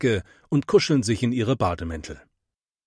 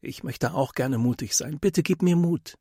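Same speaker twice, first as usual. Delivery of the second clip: quiet prayer; 5 semitones higher than usual. A narrator's reading. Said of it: "betet er".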